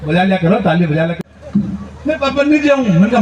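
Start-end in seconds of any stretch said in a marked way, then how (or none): 2.1-2.8 crying bride. Retold or imitated. Bride cries for father.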